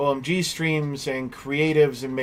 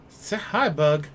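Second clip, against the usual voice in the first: delighted coo at the pet. Real, not acted. Gasp coaxing dog.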